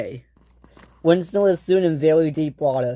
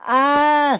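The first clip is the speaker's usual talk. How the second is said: high, sustained yelp of alarm; alarmed cry; 12 semitones higher, 4 dB louder than usual. Acted. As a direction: cry out high as you drift away. Floating away, crying for help.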